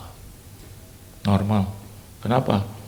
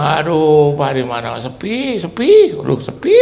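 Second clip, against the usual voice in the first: whining complaint; 4 dB louder, slower than usual. Retold or imitated. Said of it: "Terus dia bilang".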